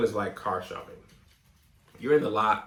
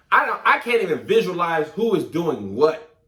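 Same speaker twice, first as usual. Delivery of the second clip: laughing in disbelief; 4 semitones higher, 5 dB louder than usual. Real, not acted. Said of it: "I got a headache trying".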